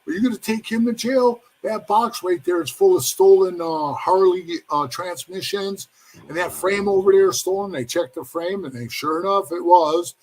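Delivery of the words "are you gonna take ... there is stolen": a touch of fake surprise, higher and pointed; spitefully turning the tables on the cops; mock surprised snitching. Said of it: "And she goes".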